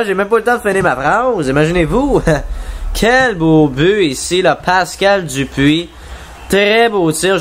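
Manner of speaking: excited sports commentary. Acted. Reacting to a quick goal.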